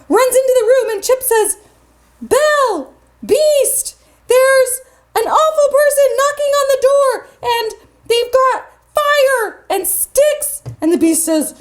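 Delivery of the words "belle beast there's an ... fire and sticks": alarmed little cup. Acted. Chip brings alarming news.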